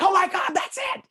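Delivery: high, loud burst of delight; light up with sudden relief; excited recognition. Retold or imitated. Guest recognising the right hotel, excited.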